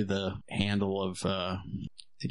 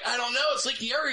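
much higher, flustered mock panic; retold panic; 11 semitones higher, much faster than usual. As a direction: blurt it out in a high fluster. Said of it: "I'm like".

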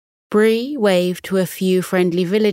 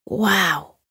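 awed sigh. A narrator's reading. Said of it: "one of them sighed".

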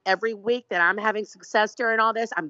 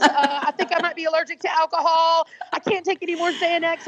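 rising higher and more frantic with each worry; panicking inner voice; 4 semitones higher than usual. Retold or imitated. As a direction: spiral into mock panic, climbing in pitch. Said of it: "instead of letting that".

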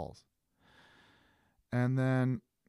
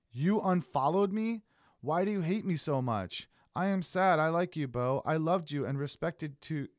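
mock wounded; 4 semitones higher than usual. Reading her hurt message.

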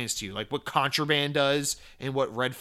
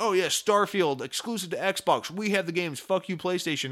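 gloating fanboy; 3 semitones higher than usual. Retold or imitated. Imitates gloating Xbox fans.

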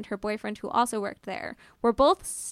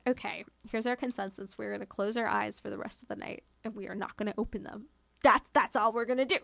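softer, hushed and quick, like a scared pact in the dark; 2 semitones lower, 5 dB quieter than usual. Retold or imitated. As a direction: keep it down, rattle off the plan.

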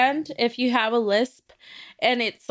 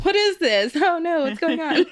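a touch higher, playing dumb; mock confused; 6 semitones higher than usual. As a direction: act clueless and panicky. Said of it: "and be like".

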